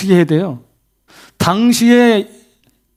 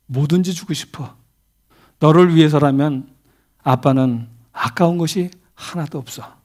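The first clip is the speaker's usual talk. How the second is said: tender father; 4 semitones lower, 4 dB quieter than usual. Retold or imitated. Father telling his son his heart.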